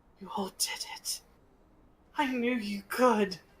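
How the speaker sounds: raspy, breathy character voice. Voicing a character who praises the group with a raspy breath. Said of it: "his breath is raspy".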